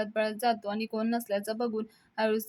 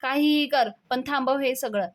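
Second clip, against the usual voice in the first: higher and louder, cutting him off; angry outburst; 4 semitones higher, 5 dB louder than usual. Acted. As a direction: demand it, angry and raised. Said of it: "Avni चिडते आणि म्हणते". (चिडून, मोठ्या आवाजात)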